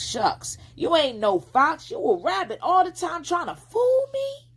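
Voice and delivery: high, loud accusation; accusing girl. A narrator's reading. Flossie calling the fox a rabbit, high and loud. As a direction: call him out as a fake.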